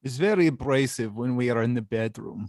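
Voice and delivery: mock Russian complaint; Russian accent. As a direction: complain in stereotypical Russian English. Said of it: "hairy Russians".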